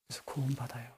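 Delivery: hushed whisper. Real, not acted. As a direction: drop to a breathy whisper. Quiet aside in sermon. (속삭이듯)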